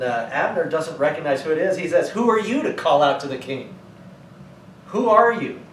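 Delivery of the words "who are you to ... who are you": demanding, rising to a sharp high shout; challenging shout. Retold or imitated. Abner calls back at the stranger on the hill, a sharp shout.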